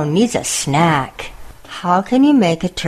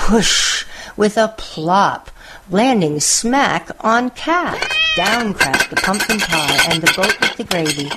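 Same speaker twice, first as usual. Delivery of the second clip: put-on lively read-aloud for children, savouring each list; storybook narration; slower than usual. A narrator's reading. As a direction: tell it like a bedtime picture book.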